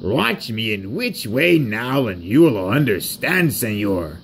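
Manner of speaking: lightly exaggerated Mexican accent. Rusty invites Sir Handel to watch, Mexican accent. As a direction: coax him in a Mexican accent. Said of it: "I'm from Mexico".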